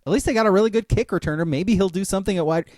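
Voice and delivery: fast, hopeful aside; hopeful fast muse. Retold or imitated. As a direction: rush the hope out. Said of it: "I'm like".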